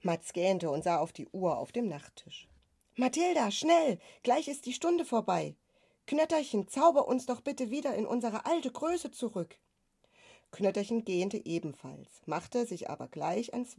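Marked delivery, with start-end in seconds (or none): 2.9-9.6 put-on urgent boy. A narrator's reading. Matz hurries his sister before the hour is over, urgent. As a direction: hurry them along in a high voice.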